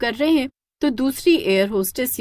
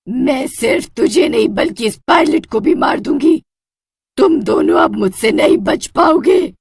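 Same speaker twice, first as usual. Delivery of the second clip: higher, louder menacing witch; witch threatening; 4 semitones higher, 6 dB louder than usual. Acted. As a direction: taunt the cowering man. Witch threatens both men.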